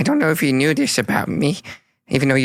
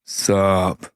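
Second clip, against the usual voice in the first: cool new Smoggle; 6 semitones lower than usual. Acted. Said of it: "What does Smoggle sound like now?".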